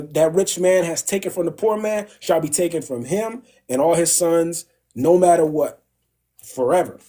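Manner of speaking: mildly angry royal decree; retold indignant king. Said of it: "King David was pissed".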